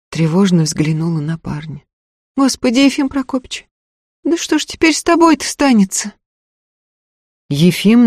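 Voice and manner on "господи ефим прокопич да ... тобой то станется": put-on high, eager young servant girl; peasant girl voice. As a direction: pitch it up as a simple village girl. Girl worries for him.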